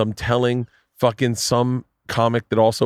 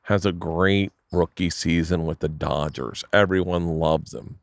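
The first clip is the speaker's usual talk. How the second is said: slow, drawn-out storyteller impression; Barry's voice; slower than usual. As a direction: imitate a manager stretching out a motivational tale. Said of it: "you gotta know Barry's voice a little bit".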